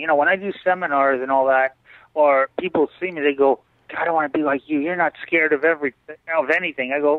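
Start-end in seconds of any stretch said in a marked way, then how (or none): none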